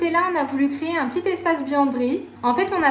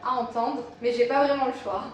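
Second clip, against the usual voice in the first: slight lisp from dental aligners; lisping on the s sounds. Real, not acted. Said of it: "si vous trouvez que je zozote un petit peu".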